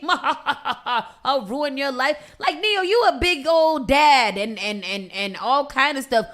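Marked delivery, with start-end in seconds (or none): 0.0-2.2 mocking Neo. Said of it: "quoting Neo mockingly".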